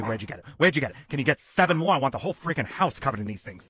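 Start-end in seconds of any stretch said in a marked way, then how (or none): 0.6-1.0 Where'd shouted much louder; loud demanding. Acted. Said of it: "repeated quieter first". 1.1-3.7 excited. Acted. Excited dog demands more rugs.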